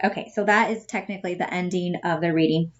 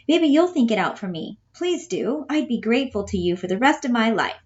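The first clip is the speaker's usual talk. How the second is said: lightly voiced Bella, a bit higher; lightly pitched-up Bella, hurried at the end; Bella earnest; 4 semitones higher than usual. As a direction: ask them for help like simple Bella. Teacher voices Bella in play reading.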